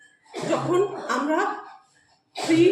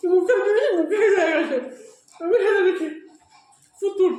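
laughing; 4 semitones higher, 3 dB louder than usual. Real, not acted. Laughing with mouth full of food.

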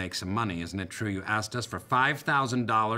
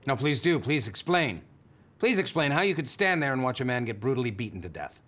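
higher-pitched, insistent demand to explain; pointed challenge; 4 semitones higher than usual. Acted. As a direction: press the guest for an answer. Host challenges guest to explain.

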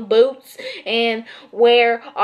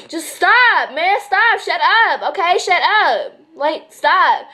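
higher-pitched, fed-up outburst; exasperated; 4 semitones higher than usual. Real, not acted. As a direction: tell them off, out of patience. Fed up with stereotyping of Texans.

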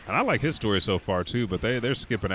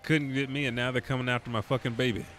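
mock fury; 4 semitones higher than usual. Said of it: "I said".

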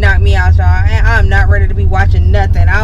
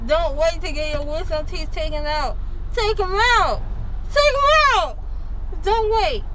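groggy from anesthesia; 8 semitones higher, 11 dB quieter than usual. Real, not acted. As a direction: talk through a numb, swollen mouth. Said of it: "I'm in pain".

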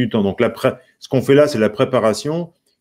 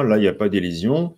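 ordinary delivery

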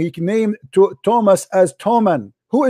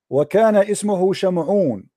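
fast fluent recitation; much faster than usual. Shown as a demonstration. Debater reads verses fast to show the other how. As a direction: rattle off the Arabic verses quickly and smoothly. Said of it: "let me read it for you".

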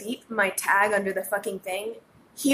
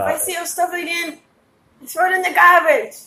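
put-on a weak African accent, pitched higher; failed African accent; 7 semitones higher than usual. Manager threatening to bin his stuff, in a poor African accent. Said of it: "That's not an African accent at all".

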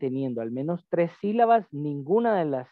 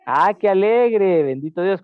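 delighted; 6 semitones higher, 8 dB louder than usual. Real, not acted. Student is visiting her father.

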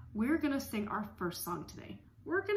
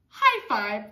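cheerful high five; 10 dB louder than usual. Acted. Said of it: "then they go".

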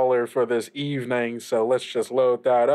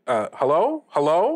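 raised voice for a caller who can't hear; too loud. Acted. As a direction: call out louder into the mic. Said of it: "too loud".

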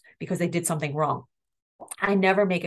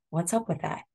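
elevator tone; 3 dB quieter than usual. Shown as a demonstration. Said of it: "use this elevator tone of voice".

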